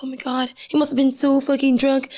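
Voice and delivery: hushed, unvoiced retelling of his line; voiceless whisper of a drunk man's excuse. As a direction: whisper it like a shocked aside. Whispered retold reaction.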